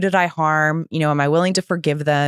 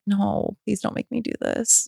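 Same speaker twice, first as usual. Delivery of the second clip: higher, softer mock plea; retold pleading; 4 semitones higher, 5 dB quieter than usual. Woman begging her sponsor to let her off, mild retold plea. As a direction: plead in a small, raised voice.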